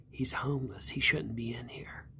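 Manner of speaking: retold hushed objection, softly spoken; confidential aside. Waiter leans over to object to the homeless guest, hushed. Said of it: "he leaned over to me and he said".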